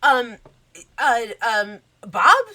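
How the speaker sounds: high, eager princess voice; gushing Cinderella. Acted. Cinderella meets her famous guests, gushing and high.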